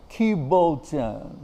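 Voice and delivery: slow, quizzical Bengali question; imitating an old Bengali lady. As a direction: drag out "Ki bolchen?" as if confused. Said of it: "see her looking at me going".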